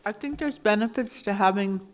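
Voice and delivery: talking with food in mouth; mouth full. Real, not acted. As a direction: speak around a mouthful of food. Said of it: "excuse me for having something in my mouth".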